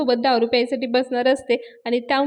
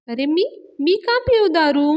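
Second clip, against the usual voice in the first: higher, slow, incredulous protest; astonished denial; 5 semitones higher, 3 dB louder than usual. Retold or imitated. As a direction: act out mild indignant disbelief. Acted astonished denial in retold story. (आश्चर्याने नकार देण्याची नक्कल)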